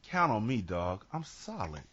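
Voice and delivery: low, soft, laid-back hustler; Sugar Man's deep voice. Acted. Robinson reassures a man about the club tonight, deep voice. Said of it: "Like his voice got deeper".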